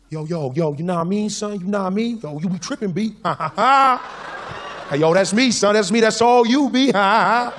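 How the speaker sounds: imitated Black American slang with hammed-up laughs; Black American lingo. Comedian practicing lingo from DVDs, hammed-up Black American accent. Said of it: "trying to get the lingo right".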